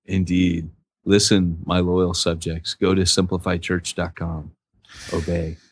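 low, slow mock king voice; warm regal boom. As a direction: address your loyal subjects like a king. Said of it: "The king of the non-math pastors".

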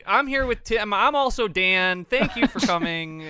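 high, loud, hammed-up host voice; mock podcast host intro. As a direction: overdo a cheesy show opener. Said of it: "you're so much better at that than I am".

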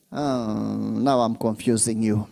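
very low, soft admission; subdued aside. Real, not acted. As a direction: drop deep and quiet, as if to oneself.

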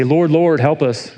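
mock scream. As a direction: retell the disciples' plea as a mild cry. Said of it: "they scream at Jesus".

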